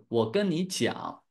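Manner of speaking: slow standard Mandarin example. Shown as a demonstration. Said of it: "in Mandarin we say".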